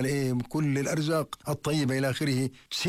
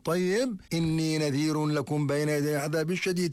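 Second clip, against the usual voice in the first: lightly voiced prophet, raised higher to carry; the Prophet calling out; 5 semitones higher than usual. The Prophet calling his people from al-Safa, lightly raised voice. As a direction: call to the crowd from the hill, a touch raised. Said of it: "ينادي فيهم".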